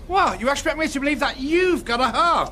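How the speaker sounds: high-pitched indignant disbelief; incredulous outrage. Acted. Manager rowing with slippery agent, incredulous outrage.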